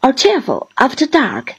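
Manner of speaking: a lightly voiced bluff old seaman, welcoming; hearty fisherman. Mr Peggotty explains the candle.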